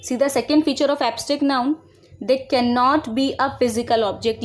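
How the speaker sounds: each word spaced out for copying; slow dictation. Shown as a demonstration. Teacher to students, dictating the definition slowly. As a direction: read it slowly so students can write.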